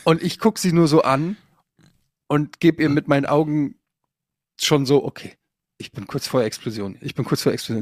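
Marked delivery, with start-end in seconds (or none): 5.0-7.8 hushed warning. Retold or imitated. Silent message to his wife.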